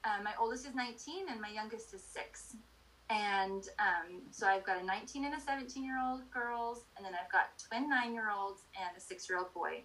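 talking over truck noise; over garbage truck. Real, not acted. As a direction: speak up over a passing truck. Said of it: "the garbage truck is going by".

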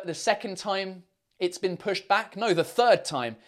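ordinary talk

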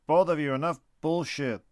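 father snapping at his bickering sons; barked. Acted. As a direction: bark it at the squabbling boys. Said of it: "the father barked".

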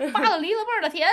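high, over-the-top Beijing erhua; Beijing accent. Retold or imitated. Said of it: "就给到底".

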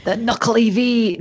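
lightly Scottish-accented, unsure attempt. Shown as a demonstration. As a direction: have a half-hearted go at Scottish. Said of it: "Say it in a Scottish accent".

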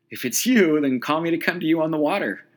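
high, loud call across the water; calling back. Retold or imitated. Peter calls from the boat to Jesus, loud. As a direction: shout it out over the waves. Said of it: "Peter called back".

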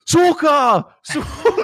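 mock shout. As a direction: bellow it like a goofy scav. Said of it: "and he's just like".

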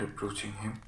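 usual speaking voice

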